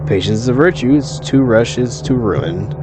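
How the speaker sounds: lightly voiced formal otherworldly woman; imperious eldritch deity. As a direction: issue a measured demand, drawing out key phrases. Deity demands her gift.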